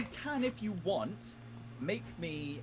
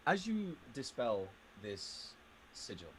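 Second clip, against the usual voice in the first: game master narration. A narrator's reading. DM narrates the scene.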